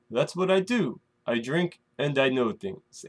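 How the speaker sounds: lightly imitated, half-hearted put-on accent; terrible Tyrion accent. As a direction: have a casual go at a badly faked accent. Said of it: "sorry for the terrible accent".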